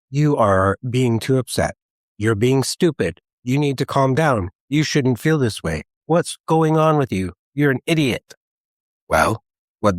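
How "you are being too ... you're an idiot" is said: inner critic. Acted. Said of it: "our shadows of shame show up and say".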